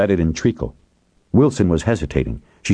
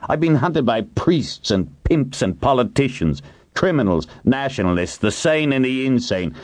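high-pitched, incredulous tirade; indignant rant; 7 semitones higher than usual. A narrator's reading. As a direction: rage at a humiliating defeat. Hiram rages at his downfall.

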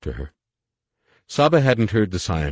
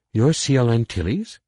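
high, loud surprised question; 6 semitones higher, 4 dB louder than usual. Acted. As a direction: catch it with surprise.

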